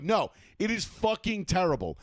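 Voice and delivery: emphatic retort, landing hard on each insult; emphatic disgust. Retold or imitated. Arguing with friends who defend the accent, emphatic disgust. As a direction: insist it's horrid, no room for argument.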